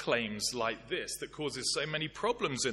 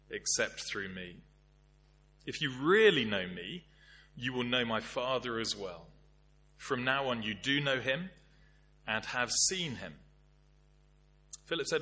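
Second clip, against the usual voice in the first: scripture reading. Acted. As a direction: read it out like scripture in church. Reads John 14 aloud.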